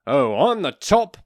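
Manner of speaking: loud, high, drawn-out mock boast; mocking top-dog voice; self-proclaimed alpha male. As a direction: brag slowly like a ridiculous big shot. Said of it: "I don't know why I'm talking like that".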